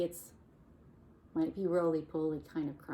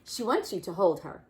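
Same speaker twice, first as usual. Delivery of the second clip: Missus Duck voice; 8 dB louder than usual. Acted. Missus Duck speaking in story.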